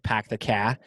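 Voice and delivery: dropped R Boston drawl; Boston accent. Shown as a demonstration. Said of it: "in Boston, it's like".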